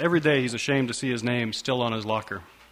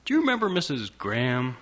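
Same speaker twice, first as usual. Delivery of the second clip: chipper sing-song. Acted. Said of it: "her voice is chipper and sing-songy".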